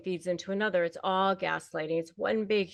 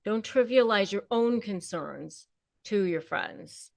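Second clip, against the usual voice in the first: normal talking voice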